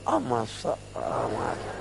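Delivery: soft, breath-light coy reply; flattered wife. Acted. Wife answering her husband's praise, coy and hushed. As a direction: play the bashful wife, hushed. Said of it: "Itu istri kalau dipuji".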